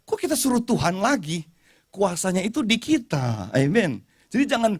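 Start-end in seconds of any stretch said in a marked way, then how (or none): 0.0-3.5 God's reply. Retold or imitated. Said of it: "Kata Tuhan".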